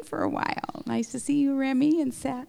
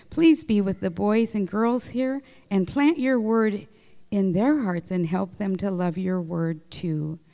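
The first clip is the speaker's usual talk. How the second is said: gentle, earnest prayer voice; children's prayer. Acted. Leading the boys and girls in closing prayer, earnest. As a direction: pray simply so the children can follow.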